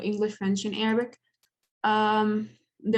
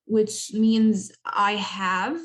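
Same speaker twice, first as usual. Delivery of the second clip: slow explaining; much slower than usual. Shown as a demonstration. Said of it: "you would say عندي".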